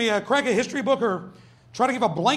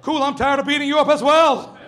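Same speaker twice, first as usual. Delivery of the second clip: put-on kid's voice; 3 semitones higher, 4 dB louder than usual. Second kid voiced in dialogue.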